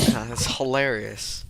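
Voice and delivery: dry mock agreement; sarcastic. Real, not acted. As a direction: say it with understated sarcasm.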